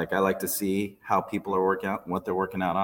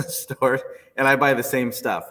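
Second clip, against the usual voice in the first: amused, laugh breaking in before the words; 4 semitones higher, 5 dB louder than usual. Real, not acted. Guest admitting a shopping habit to the host, laughing. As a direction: let a chuckle spill into the confession. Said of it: "I'm laughing because".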